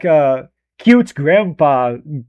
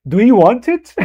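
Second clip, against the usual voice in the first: gentle pleading Sidious. Retold or imitated. Streamer imitates novel Sidious coaxing Anakin, mild pleading voice. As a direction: plead gently, like a kindly grandpa tempting him. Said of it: "novel Sidious was more like".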